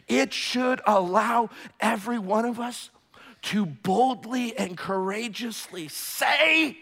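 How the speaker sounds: loud, high preaching cry; fiery pulpit delivery; full-force preaching. Acted. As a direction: proclaim it to the back wall.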